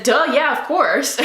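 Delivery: giddy duh yeah. Retold or imitated. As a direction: blurt it out in happy disbelief. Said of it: "I didn't say it exactly like that".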